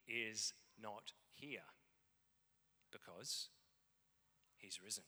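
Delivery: slow, soft and hushed, letting each word land; hushed reveal. Acted. Angel telling the women, a slow hushed announcement. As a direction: drop the voice low and slow for the big news.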